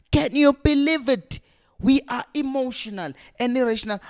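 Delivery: can you believe this, fuming; outraged disbelief. Real, not acted. Fan ranting at the chairman, incredulous.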